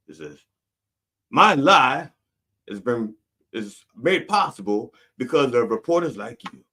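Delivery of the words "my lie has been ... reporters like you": lightly voiced sponsor credit; public television announcer. Parodying a public television credit, a hint of announcer voice. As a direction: deliver it like a programme funding credit. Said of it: "a thing for public television".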